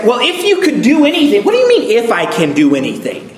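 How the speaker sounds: high, indignant mock question; offended retort. Jesus answering the doubting father, indignant. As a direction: scoff at the doubt. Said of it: "he almost sounds a little bit offended".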